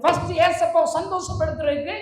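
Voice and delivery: high pulpit cry building to a shout; impassioned preaching. Real, not acted. Preacher urges that a sinner must repent, impassioned shout. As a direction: build steadily to a loud, high climax.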